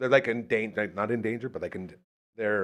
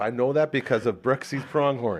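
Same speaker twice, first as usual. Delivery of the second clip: normal talking voice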